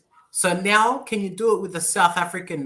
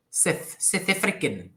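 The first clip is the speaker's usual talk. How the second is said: South African vowel; 3 semitones higher than usual. Shown as a demonstration. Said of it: "they say Seth".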